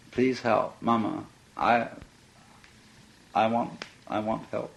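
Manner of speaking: put-on crying child. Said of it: "a crying child".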